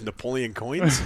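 real laughter at the mixup; laughing. Real, not acted. Guest laughs at the host's Napoleon mixup, laughing.

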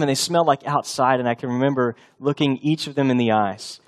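usual speaking voice

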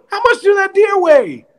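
high, put-on coach grilling the driver; mock manager voice. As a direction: play the boss, half teasing, half scolding.

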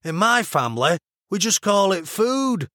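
broad Mancunian vowels; Mancunian accent. A narrator's reading. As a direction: retort drily in a Manchester accent. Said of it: "the over-enunciated vowels she was already learning".

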